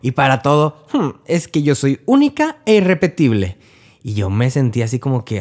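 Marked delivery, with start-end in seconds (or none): 0.9-3.6 mock the aunt's self-important boast; hammed-up proud aunt, nose in the air; imitating a haughty aunt. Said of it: "lo sentía de una manera muy soberbia".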